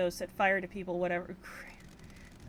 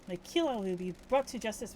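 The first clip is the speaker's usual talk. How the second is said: put-on terrible French accent. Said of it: "with my terrible French accent, by the way, chat".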